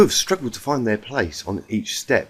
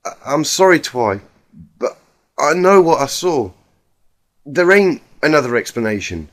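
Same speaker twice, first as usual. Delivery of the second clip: tearful; 3 dB louder than usual. Acted. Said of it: "tears ... completely unchecked".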